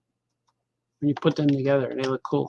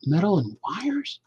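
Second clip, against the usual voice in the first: "Metal and wires?" slowly, rising on "wires"; as a question; slower than usual. Shown as a demonstration. Reading the line again as a puzzled question. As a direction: let "wires" lift into a question. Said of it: "when I read it as a question".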